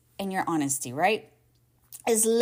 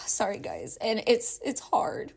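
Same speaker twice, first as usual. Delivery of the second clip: holding back tears. Real, not acted. Host apologizing to listeners while crying, real teary voice. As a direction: fight to keep talking through real tears. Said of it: "crying and my inner child wanted to cry".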